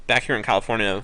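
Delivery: talking through a mouthful; words round a bite of food; mouth full. Real, not acted. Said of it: "sorry if I'm talking with my mouth full".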